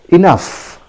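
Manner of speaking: "enough" said ih-NUF; pronunciation demo. Shown as a demonstration. Teacher modelling for learners, "enough" as ih-NUF. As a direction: say "enough" with a final f sound. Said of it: "pronounced as".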